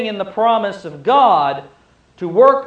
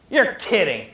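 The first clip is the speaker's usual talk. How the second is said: incredulous. Acted. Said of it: "is as incredulousness".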